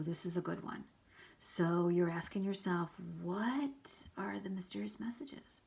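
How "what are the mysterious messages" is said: mysterious whisper. Acted.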